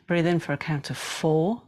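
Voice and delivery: slow, elongated breath cues; breathing guidance. Shown as a demonstration. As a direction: draw out each cue, leaving long pauses. Counts breaths in and out.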